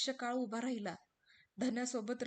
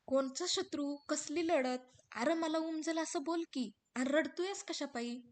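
raised, slowed questions; desperate wife; 5 semitones higher, 5 dB louder than usual. Acted. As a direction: demand the truth. हिरा विचारते. (हिरा रडणाऱ्या रामूला विचारते)

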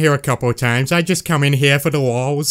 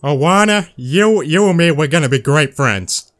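buddy-buddy cartoon dad; Peter Griffin voice. Asked by Alana, greets her as Peter Griffin. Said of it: "Just say it for me in the Peter voice".

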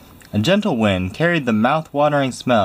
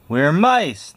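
much higher squeaky reply; squeaked; 6 semitones higher than usual. Acted. The soldiers answer their commander, squeaking. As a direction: squeak it out like small scared mice. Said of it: "they squeaked".

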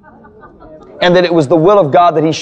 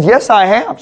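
higher, mildly upset insistence; a little upset; 5 semitones higher, slower than usual. Retold or imitated. Woman insisting to pastor she has forgiven, a little upset. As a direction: imitate a woman getting defensive. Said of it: "She started getting a little upset".

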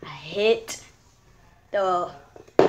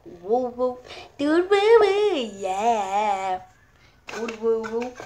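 put-on baby talk; slower than usual. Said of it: "baby talk".

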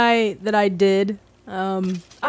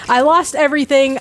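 loud lament; 3 semitones higher, 6 dB louder than usual. Real, not acted. Despairing over lost items.

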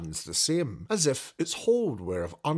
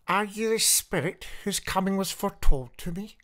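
put-on high, louder, awed old man; Scrooge in awe; 9 semitones higher, 5 dB louder than usual. Scrooge facing the spirit, high awed question. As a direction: ask the spirit with trembling awe.

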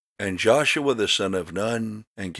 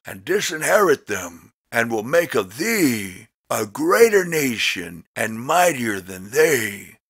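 raised, solemn voice of God; higher, weighty divine rebuke; voice of the Lord; 4 semitones higher, 4 dB louder than usual. Acted. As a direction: speak as an offended God, lifting the pitch. The Lord speaks in scripture reading.

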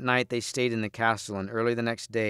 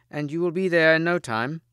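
high, louder woodman's promise; raised, lively assurance; eager cry; 7 semitones higher, 5 dB louder than usual. A narrator's reading. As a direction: call it out with pitch well up. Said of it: "cried the woodman".

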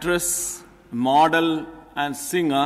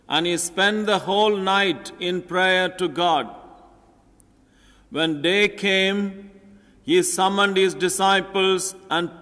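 solemn, measured proclamation; gospel reading; 2 semitones higher than usual. Acted. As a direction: proclaim it like a priest.

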